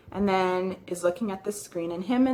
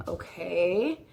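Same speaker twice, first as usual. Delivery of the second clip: blank stare okay. Retold or imitated. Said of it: "blank, like".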